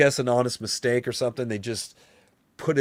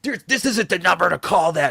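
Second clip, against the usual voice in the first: higher and louder, annoyed brush-off; imitating the owner snapping at a caller; irritated rich guy; 9 semitones higher, 6 dB louder than usual. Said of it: "he got all angry at me".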